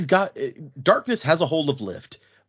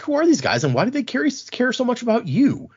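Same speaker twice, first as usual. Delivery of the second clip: Wendell's voice; 10 semitones higher than usual. Retold or imitated. Wendell voiced in retold story.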